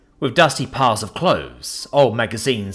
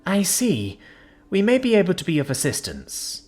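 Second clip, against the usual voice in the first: sympathetic; 9 semitones higher than usual. Acted. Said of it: "Alora began sympathetically".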